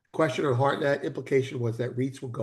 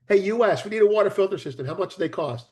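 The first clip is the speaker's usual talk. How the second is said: calling out; 4 semitones higher, faster than usual. Retold or imitated. Politician calling the US.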